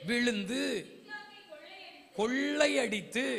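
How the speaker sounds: ordinary talk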